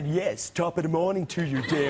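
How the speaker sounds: a flat, serious attempt at Irish that misses; failed Irish accent. The speaker greeting Damien with a bad Irish accent. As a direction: try an Irish accent and fail. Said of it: "sounds nothing like a, an Irishman".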